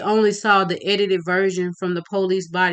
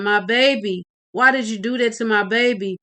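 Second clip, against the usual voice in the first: crying mother; 3 semitones higher, 3 dB louder than usual. Acted. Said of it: "screaming and crying".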